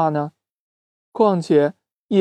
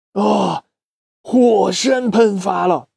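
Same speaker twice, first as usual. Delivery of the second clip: alarmed shout; 4 semitones higher, slower than usual. A narrator's reading. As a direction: cry out as the volcano blows. Volcano erupts.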